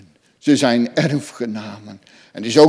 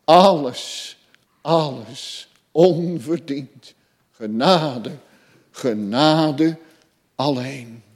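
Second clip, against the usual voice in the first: broken voice; slower than usual. Retold or imitated. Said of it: "met een gebroken stem".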